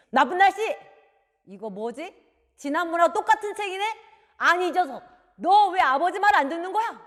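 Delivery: loud, high-pitched scolding; angry outburst. Acted. Father finding the same book again, furious. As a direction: explode at a disobedient child. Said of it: "화를 버럭 내면서".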